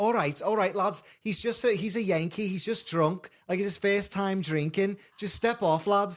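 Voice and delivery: put-on Liverpool accent. Retelling a fight, the speaker quotes a girlfriend from back then, imitating a Liverpool accent. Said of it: "Liverpudlians have a very specific accent".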